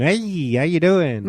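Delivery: lightly sung-sounding greeting in the style of a singer; a hint of a singer in the greeting; the speaker's impression like a singer. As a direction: slide into a loose impression of a singer's style. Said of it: "It almost sounds like Bob Dylan".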